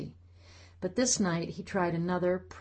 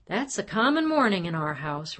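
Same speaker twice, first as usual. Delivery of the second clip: smug; 2 semitones higher, 4 dB louder than usual. Acted. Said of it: "Robert said smugly".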